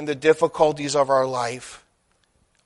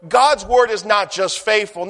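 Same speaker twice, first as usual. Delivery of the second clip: ordinary delivery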